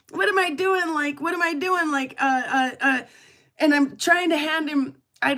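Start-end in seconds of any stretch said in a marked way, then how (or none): 0.1-1.9 higher, a bit louder, giddy "what am I doing"; retold disbelief. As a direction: ask yourself half-laughing in disbelief. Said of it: "I was like".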